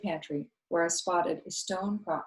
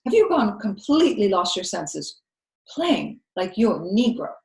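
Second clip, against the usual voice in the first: loud scolding; 3 semitones higher, 8 dB louder than usual. A narrator's reading. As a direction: scold her for playing in the field. Viola scolding the girl.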